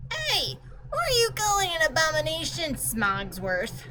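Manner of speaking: put-on high, fast, offended kid voice; indignant girl. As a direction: snap back at the pompous clock, pitched high.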